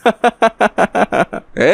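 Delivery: high, gloating trickster chuckle; sly laugh. Acted. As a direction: chuckle at your own clever trick. Trickster gloats before selling masks. (ধূর্ত খুশির হাসি)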